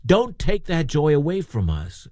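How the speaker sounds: understated, earnest pleading; acting out givers who insist on being included; begging. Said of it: "but they begged him".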